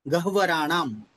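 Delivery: "गह्वराणाम" said deliberately, h sounded before v; correct pronunciation. Shown as a demonstration. Teacher correcting a student's pronunciation, careful "गह्वराणाम". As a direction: model "गह्वराणाम" clearly for a learner. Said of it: "इस तरह इसका उच्चारण होगा".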